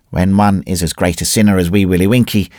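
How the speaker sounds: ordinary delivery, nothing marked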